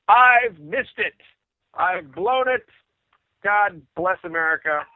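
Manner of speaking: high, drawn-out mock despair; exasperated lament. Singer alone after missing the bowling invite, exasperated wail. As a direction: wail each short phrase slowly, half in jest.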